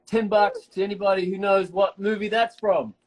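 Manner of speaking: normal talking voice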